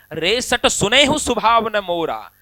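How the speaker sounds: angry rebuke. Acted. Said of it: "Parshuram जी को गुस्सा आ गया".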